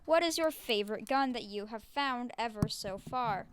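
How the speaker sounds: flat robotic monotone. Real, not acted. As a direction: speak like a robot, no lilt. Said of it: "Why do you sound like a robot today?".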